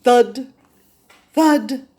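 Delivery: loud, heavy, spaced footstep words; booming thuds. Acted. Giant footsteps approaching.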